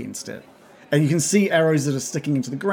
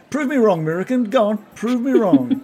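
smug taunt; 7 semitones higher than usual. Acted. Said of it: "flashes a smile back at you and goes".

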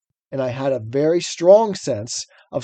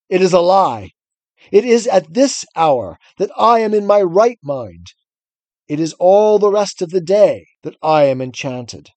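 stagey fake archaic declaiming. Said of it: "forcing himself to speak calmly".

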